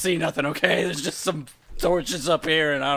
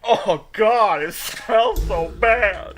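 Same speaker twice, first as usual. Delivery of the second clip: disgusted; 7 semitones higher, 6 dB louder, much slower than usual. Acted. Character reacts to stench.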